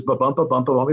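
quick "ba-bump" pairs, stress on BUMP; iambic beat. Shown as a demonstration. Writer describing dialogue in meter start to end, stressed "bump". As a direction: rattle off "ba-bump" with the second syllable stressed. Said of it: "It's not broken into pentameter".

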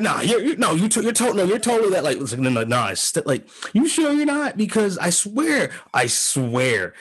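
high, pleading mock insistence; insistent white guy. Imitating the guy who mistook him, high and pleading. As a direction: imitate him refusing to believe you. Stranger insists on mistaken identity.

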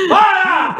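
high-pitched mock shout; hammed-up fed-up cry; exasperated yell, acted. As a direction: yell as a dad at breaking point. Fed-up father yelling at song.

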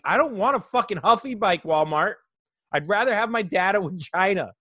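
mock exasperated outburst. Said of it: "I'm like".

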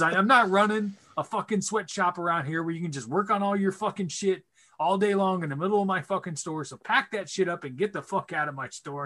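angry tirade. Retold or imitated. Dad's tirade at customer, retold.

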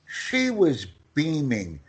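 she was beaming, slowed down and spelt out. Shown as a demonstration. Repeating the phrase for the learner who asked, slowly and clearly. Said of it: "Can you repeat?".

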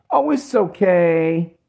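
a hint of a condescending soothing woman; mock consoling woman. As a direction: coo like a woman consoling a sad man. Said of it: "You want a pat on your back".

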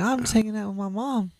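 high, put-on girlish voice; imitating the girl. Girl explaining herself, high girly voice. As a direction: give her a high girly reply.

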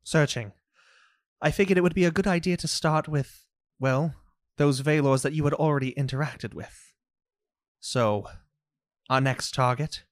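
measured, deliberate mystic explaining, with long pauses; composed in-character briefing; Luna briefing the party. Acted. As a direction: lay out the next target carefully. Game master voices Luna briefing.

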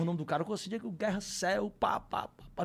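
ordinary delivery

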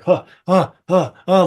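short mock "huh" grunts; quick puffs, imitating someone whirling about; imitated startled huffs. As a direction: series of huffed huhs. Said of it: "like, turning back and forth".

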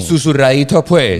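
playful mock Colombian murmur accent; imitated Colombian accent. Host teases about accent in the ear, mock Colombian accent. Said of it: "con ese acentico en la oreja".

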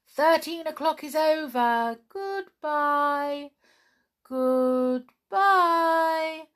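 high, thin, long-held farewell calls; small pixie voices. A narrator's reading. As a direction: call goodbye in a tiny, stretched-out pixie voice. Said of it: "their voices growing small and faint".

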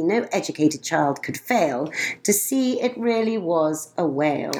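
lilting rhymed storybook reading; reading verse aloud. Acted. Mother reading a rhyming poem to a friend, lilting. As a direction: read the couplets to a child with a gentle bounce.

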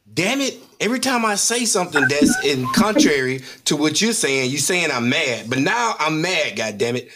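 mock angry outburst. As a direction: growl it out low, as if finally losing patience. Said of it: "Or you might get upset and say".

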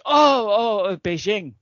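hesitant, lightly voiced answer; young foreign traveller. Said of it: "the guy goes".

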